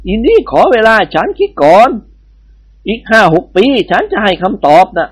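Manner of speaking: lightly voiced Indian bandit; Indian babu voice. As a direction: play the amused bandit babu. Babu character voice.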